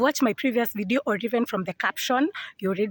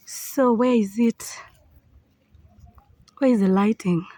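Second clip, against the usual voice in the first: whispered. Real, not acted. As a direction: mutter it to yourself searching. Searching quietly for the lighting.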